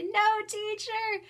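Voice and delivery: put-on high, loud, slow childlike protest; imitating the kids. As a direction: copy the kids' drawn-out "No, teacher". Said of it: "And they say".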